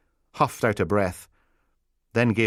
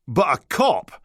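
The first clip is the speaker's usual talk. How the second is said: despairing cry; 7 semitones higher, 4 dB louder than usual. Acted. Biohazard despairs.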